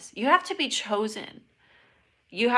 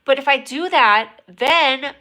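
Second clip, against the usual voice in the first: higher, louder excited rush; 5 semitones higher, 11 dB louder, slower than usual. Real, not acted. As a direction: build it up with excitement. Excited build-up.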